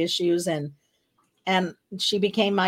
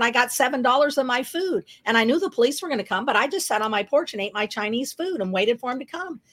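rapid-fire chatter; 4 semitones higher than usual. Retold or imitated. New cellmate explaining her arrest to her roommate, rapid-fire chatter. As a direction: imitate a roommate rattling on, pitched a little up. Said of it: "she's just talking a mile a minute".

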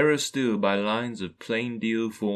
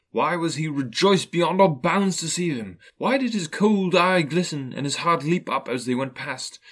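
animated, higher rhetorical questions; stirring, incredulous narration; impassioned questioning; 5 semitones higher, 5 dB louder than usual. A narrator's reading. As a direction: press each question with mounting wonder, then scorn. Narrator builds rhetorical questions to scornful climax.

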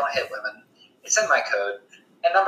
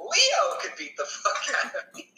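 laughing; 6 dB quieter, slower than usual. Real, not acted. Laughing about losing a fight.

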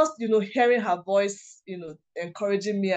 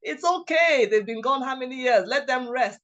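mock-exasperated friend, pitched higher; higher, teasing complaint in retelling; joking exasperation; 5 semitones higher than usual. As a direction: imitate a friend's playful scolding. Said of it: "she was just joking".

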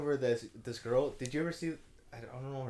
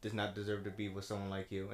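podcaster quote; 8 semitones lower, 8 dB quieter than usual. Retold or imitated. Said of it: "he said, like".

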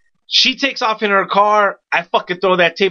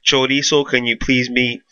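mock intercom call; 5 semitones lower than usual. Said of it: "this is what I hear over the intercom".

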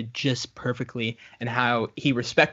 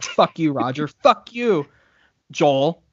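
mock quarrel; 3 dB louder, slower than usual. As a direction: act out a half-joking feud. Imagined quarrel of hateful colleagues.

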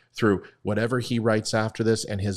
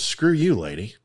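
mock rude brush-off, pitched up then dropping; gruff retort; 3 dB louder than usual. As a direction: punch the first words, drop on the last. Man snaps back at lady.

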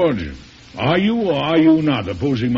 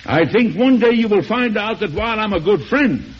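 cold threat; 7 semitones higher than usual. Acted. President threatens the senator.

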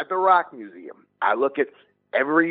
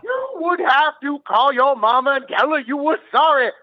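hammed-up fervor; 7 semitones higher than usual. Lewd preacher-like outburst.

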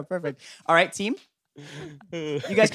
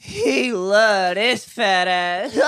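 slow bit collapsing into laughter; laughing through it; 9 semitones higher, 6 dB louder, much slower than usual. Pretend. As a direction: try to keep a straight face and crack up. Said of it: "do it with a straight face".

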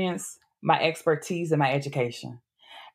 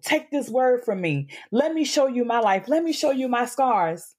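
preaching; 3 semitones higher than usual. Real, not acted. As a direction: preach it like a Sunday sermon. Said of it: "No, please preach".

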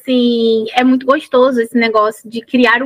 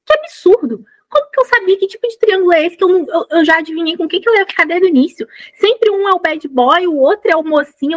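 higher, fast, fed-up complaint; irritated rant; 6 semitones higher than usual. Retold or imitated. Reader griping about the book's triangle, irritated and quick. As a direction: rant at the predictable love triangle. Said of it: "eu tô irritada".

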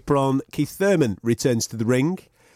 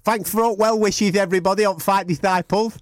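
lightly voiced Kell, teasing; a light Kell voice, stubborn and playful; Kell Brook impression; 3 semitones higher than usual. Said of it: "I'm gonna have to talk like this".

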